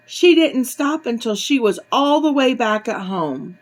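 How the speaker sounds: put-on measured, expressive reading to children; animated bedtime-story narration; storybook reading. A narrator's reading. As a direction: read a picture book aloud to little ones.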